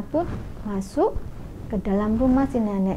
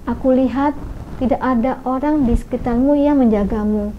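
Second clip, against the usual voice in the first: patient. Acted. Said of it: "dengan penuh kesabaran berkata".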